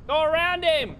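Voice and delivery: high, urgent game callout. Real, not acted. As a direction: call it out high to a teammate. Calling instructions to teammate in game.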